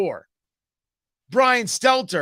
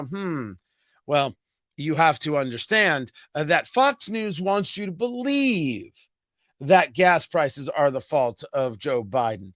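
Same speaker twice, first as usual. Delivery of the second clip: musing, slow mock pundit lecture; a lightly voiced smug professor musing; mock Brian Stelter; 4 semitones lower than usual. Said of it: "in Brian Stelter's class, I go".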